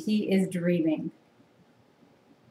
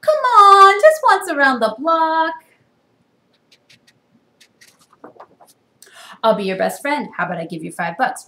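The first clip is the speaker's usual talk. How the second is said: pleading pigeon; 8 semitones higher, 11 dB louder than usual. Acted. Pigeon begging.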